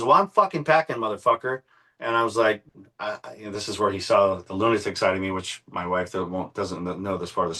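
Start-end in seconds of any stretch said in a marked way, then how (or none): 0.0-1.6 high, swaggering mock-threat; imitated taunt. Friend taunting him while pulling out two guns, high mock swagger. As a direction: sneer it up high like the armed friend. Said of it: "And he pulls out two guns".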